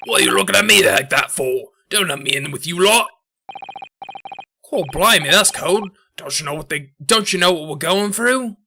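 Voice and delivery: indignant Cockney baddie; attempted Cockney accent. Skulkin brother objecting to being looked at, indignant Cockney accent. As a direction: protest like an affronted Cockney mobster. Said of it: "It's like the same accent".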